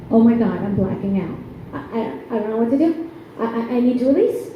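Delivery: stammering, rapid mock desperation; mock panic. Comic holding back swearing after stubbing toe, mock panicked stammer. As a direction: stutter as if about to burst.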